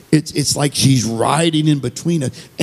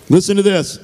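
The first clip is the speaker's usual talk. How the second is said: emphatic repeat; 10 semitones higher than usual. Real, not acted.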